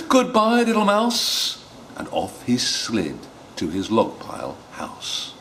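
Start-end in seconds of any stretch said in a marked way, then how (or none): 0.1-1.6 higher hurried goodbye; snake voice. Acted. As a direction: gabble a quick farewell. Snake flees.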